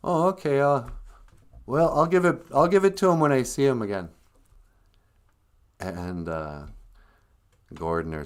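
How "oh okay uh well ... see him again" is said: lightly voiced higher puppet; Big Bird. Big Bird missing the point, lightly voiced naive puppet. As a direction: answer innocently, not grasping it. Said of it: "And Big Bird goes".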